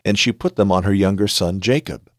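measured storytelling read of a Bible passage; calm audiobook narration; scripture reading. A narrator's reading. Reads Genesis story aloud.

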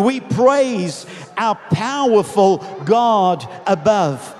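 slow, emphatic praise; crowd's shout. Retold or imitated. Others in the crowd praise God, proclaiming. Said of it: "others that were shouting".

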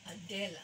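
Adela said evenly with the stress on DE, falling after; accented second syllable. Shown as a demonstration. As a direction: land on the middle of "Adela", then drop. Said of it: "or do I say".

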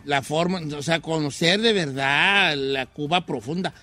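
lightly voiced old man. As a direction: talk like a frail old man. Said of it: "está hablando como viejito".

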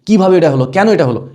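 a touch of acted surprise; mildly surprised. Shown as a demonstration. Teacher acting out an astonished question, mildly surprised. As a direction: ask it as if mildly taken aback. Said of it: "খুব অবাক হয়ে যদি বলো".

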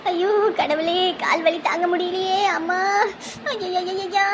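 hammed-up groan of pain from an old woman; theatrical mock moaning, a touch of sobbing; fake wailing. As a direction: overact the pain so they believe it. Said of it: "நடிப்ப போடுவோம்".

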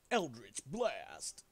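slow, drawn-out spell name; meme spell call. Acted.

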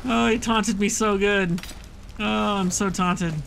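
high, loud, drawn-out moan after laughing; slow high-pitched mock lament; amused wail. Real, not acted. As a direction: wail slowly, tickled at being taunted. Amused wail after being taunted.

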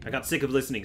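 ordinary delivery

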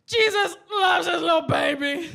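loud, high, hammed-up shout; drunken exclamation. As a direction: proclaim it loudly to nobody in particular. Acted drunken outburst to nobody.

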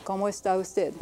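Cómo está usted joined up, falling at the end; whole Spanish phrase. Shown as a demonstration. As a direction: read back Cómo está usted as one linked phrase. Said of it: "In I P A would be like this".

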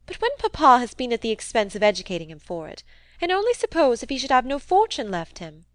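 lightly voiced protesting young lady; Rosamond pressing her point. Narrator voices Rosamond arguing.

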